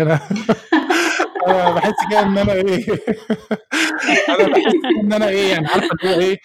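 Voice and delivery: words bubbling with laughter; giggling while explaining; laughing. Real, not acted. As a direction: laugh through the search for words.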